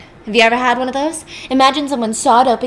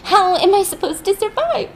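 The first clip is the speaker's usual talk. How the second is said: high, rising hammed-up lament; mock wailing widow; 9 semitones higher than usual. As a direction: wail it like a melodramatic widow. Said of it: "she's like".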